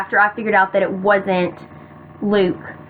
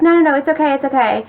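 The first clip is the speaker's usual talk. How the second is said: high start, easing down as it repeats; sweet reassurance; 3 semitones higher, much faster than usual. Retold or imitated. Boy answering her second apology, sweetly. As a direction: lightly imitate him soothing her. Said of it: "he was really sweet".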